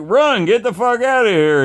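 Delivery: high-pitched panicked urging; urgent warning. Retold or imitated. Telling stung Billy to get away, urgently.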